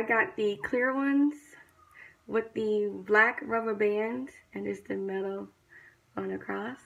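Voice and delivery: lip held down by finger; speaking with lip pulled down. Real, not acted. Seen 1: finger holds lower lip down, showing braces throughout labelled words.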